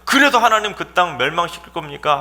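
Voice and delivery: high, forceful demand; combative challenge. Acted. Abraham challenging God over fifty righteous, combative high-pitched protest. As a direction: come in spoiling for a fight. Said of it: "하나님께 막 싸울 기세로".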